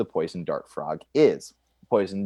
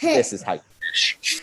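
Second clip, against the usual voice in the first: high otter voice. Retold or imitated. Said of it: "And as if to say".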